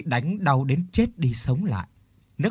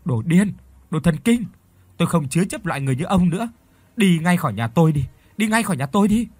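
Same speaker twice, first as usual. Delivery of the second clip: louder, higher indignant outburst; angry fighting back; 5 semitones higher, 5 dB louder, faster than usual. A narrator's reading. Wife fighting back at her violent husband, angry and loud. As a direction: throw him out in a raised, high voice. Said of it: "vùng lên chống trả".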